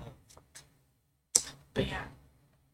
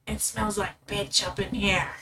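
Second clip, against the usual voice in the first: smoker voice; slower than usual. Pretend. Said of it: "Give the viewers what they want".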